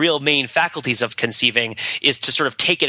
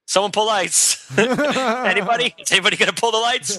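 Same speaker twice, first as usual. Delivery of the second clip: pleading; 8 semitones higher than usual. Retold or imitated. Begging for lights in scene.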